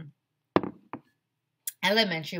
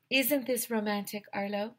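put-on higher dreamy girl voice; 5 semitones higher than usual. Andrea asking Arlo dreamily, higher lovestruck girl voice. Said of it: "Andrea asked".

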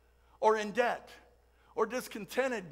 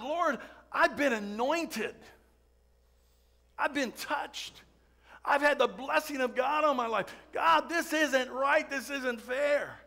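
slow, higher pleading cry to God; pleading David; 4 semitones higher than usual. Retold or imitated. Preacher voicing David crying out to God in the cave, slow and pleading. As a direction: plead slowly, wounded and urgent. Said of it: "he's crying out to God".

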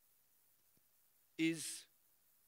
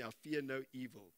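soft declaration; 5 semitones lower, 7 dB quieter than usual. Shown as a demonstration. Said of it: "Say it with me".

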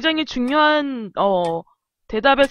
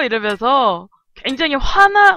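ordinary delivery

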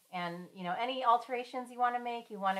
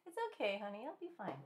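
high-pitched, soothing parent voice; sweetly reassuring, trailing softer; tender reassurance; 3 semitones higher, 6 dB quieter, faster than usual. Real, not acted. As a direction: gently comfort a worried little one. Reassuring a worried child.

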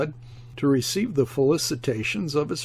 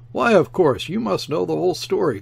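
higher, louder, quick eager call; eager cry; 4 semitones higher, 4 dB louder than usual. Acted. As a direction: cry out, hungry for gossip. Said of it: "cried several voices, eager with curiosity".

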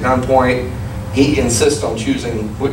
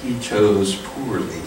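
calm repeat; 2 semitones lower, 4 dB quieter, slower than usual. Shown as a demonstration. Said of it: "a time where you chose poorly".

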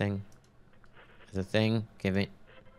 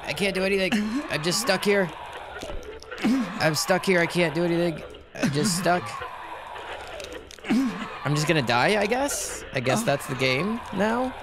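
whiny high voice; 10 semitones higher than usual. Real, not acted. Stuck and unable to act in game.

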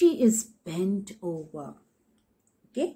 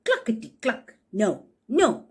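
hen clucking; 3 semitones higher, 3 dB louder than usual. Acted. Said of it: "How does the hen say".

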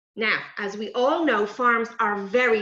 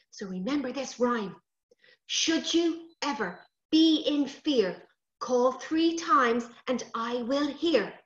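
sprite teaching a rhyme. Acted. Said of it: "said Mister Brambles".

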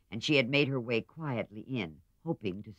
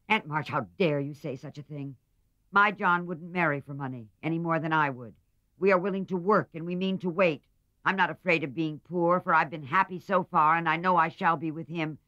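higher, louder earnest protest; indignant young woman; 7 semitones higher, 4 dB louder than usual. A narrator's reading. Niece defending her fiancé to her aunt, higher and indignant. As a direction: stand up for him, hurt and proud.

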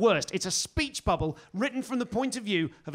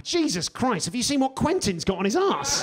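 shocked snake; 4 semitones higher, 5 dB louder than usual. Retold or imitated. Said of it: "they're like".

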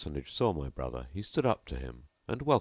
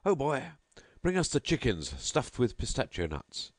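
put-on much higher call to the boy; host shouting for imaginary chickens; crying out; 7 semitones higher than usual. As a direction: summon the stuffed chickens with a flourish. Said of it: "Presently he cried out".

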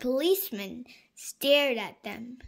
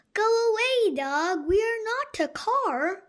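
loud, high call to shoo a dog away; 10 semitones higher, 6 dB louder than usual. Acted. Danny shouting at a barking dog, loud and high. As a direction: wave the dog off with a raised voice.

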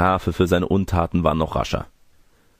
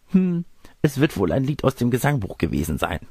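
higher-pitched put-on granny voice; wolf posing as grandmother; 6 semitones higher than usual. Disguised wolf explains his song to the girl, higher granny voice.

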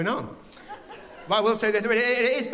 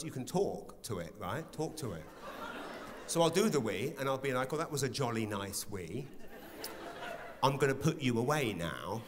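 mock tender whisper-talk; 3 semitones lower, 8 dB quieter than usual. Talking softly to his member.

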